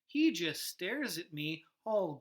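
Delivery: slow hushed whisper. Acted. Teacher reading the ending to the class in a slow whisper. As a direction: hush it as if peering at the fish.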